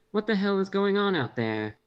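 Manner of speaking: anxious question pitched high at first; fearful edge on a startled demand; shaky, anxious. A narrator's reading. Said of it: "My voice has a shaky edge to it, betraying the fear and anxiety".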